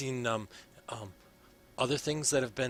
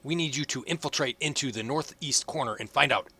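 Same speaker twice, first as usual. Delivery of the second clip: put-on old advisor voice; 5 semitones higher, 7 dB louder than usual. Advisor character continues.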